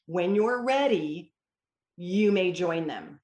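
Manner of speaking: slow and measured parent voice; a patient mother telling her son he may rejoin; slow, calm permission. Retold or imitated. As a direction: give the permission slowly and evenly. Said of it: "Then I say".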